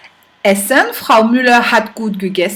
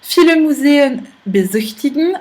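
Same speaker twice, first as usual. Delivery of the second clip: "besichtigen" stressed on "sich", not "be"; stress off first syllable. Shown as a demonstration. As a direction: keep "be" unaccented in "besichtigen". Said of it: "elle est autre part dans le verbe".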